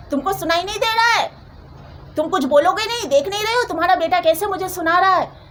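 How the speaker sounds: indignant scolding. Retold or imitated. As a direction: imitate an indignant mother-in-law demanding a reaction. Acted mother-in-law berating her husband.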